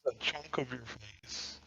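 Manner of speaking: glitchy robotic audio. Real, not acted. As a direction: sound like a broken robot. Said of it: "you just sound like a little robot".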